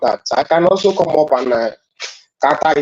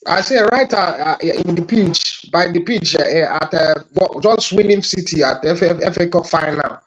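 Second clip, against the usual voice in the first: muffled, underwater-sounding line; muffled mic; 2 semitones higher than usual. Real, not acted. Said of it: "you sound like you're underwater".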